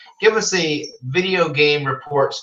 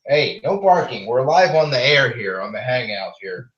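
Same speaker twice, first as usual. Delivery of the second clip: raised-voice telling-off for barking; scolding a pet; 4 dB louder than usual. Real, not acted. Host to barking pet while live on the air, scolding. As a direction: cut the barking short, firmly.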